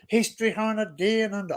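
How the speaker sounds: outsider's take on an Australian accent; Steve Irwin accent. Shown as a demonstration. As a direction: try an exaggerated Aussie accent. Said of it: "say it in the Steve Irwin accent".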